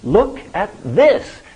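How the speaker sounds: high eager elf voice; excited elf. Retold or imitated. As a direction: show it off, thrilled. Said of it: "very excited".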